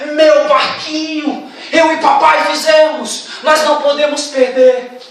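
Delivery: put-on slow, pleading child's wail; child crying over lost boat. Child pleading as guard holds him back, slow and tearful. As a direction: stretch the words like a child sobbing. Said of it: "A criança chorava muito e dizia".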